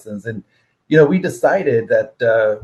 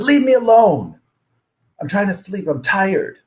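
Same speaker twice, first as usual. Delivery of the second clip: much higher, whiny leave-me-alone voice; grumpy sleepy brother; 7 semitones higher, 3 dB louder than usual. Retold or imitated. Brother dozing in church pushes him away, whiny and higher. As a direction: brush him off like a cranky teen half asleep.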